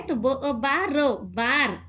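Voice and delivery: बो ओ बा रो said slowly sound by sound, then बार together; slow blending of sounds. Shown as a demonstration. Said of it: "एक नीचे नुक्ता लगाए". (अक्षर धीरे-धीरे जोड़कर पढ़ना)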